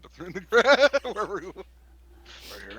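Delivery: real laughter. Real, not acted. Player describes a hand in the grass, real laughter breaking in. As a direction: break up laughing mid-sentence.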